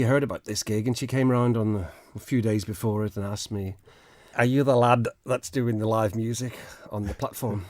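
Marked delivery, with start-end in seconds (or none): 4.4-7.6 bad Liverpool Scouse impression; Scouse accent. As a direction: put on a hammy Scouse accent. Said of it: "that's my Scouse accent".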